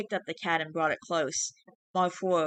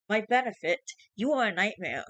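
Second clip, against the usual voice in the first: higher, pleading and fearful; scared creature; 5 semitones higher than usual. Acted. Changeling begging the father, genuinely scared. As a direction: beg to be spared. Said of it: "sounded genuinely scared".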